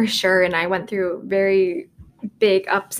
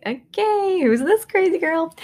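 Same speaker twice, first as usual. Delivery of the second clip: much higher mock voice of puzzled onlookers; gym strangers; 9 semitones higher, slower than usual. Gym goers staring at her sobbing on the elliptical, high mock voice. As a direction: imitate strangers judging the crying girl. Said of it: "people were like".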